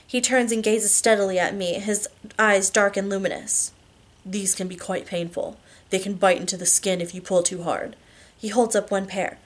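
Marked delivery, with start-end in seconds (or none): 4.2-8.0 cautioning lover. Acted. Husband warns wife the cuffs can be painful, cautioning. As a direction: gently warn her, voice kept down. Christian warns her about handcuffs.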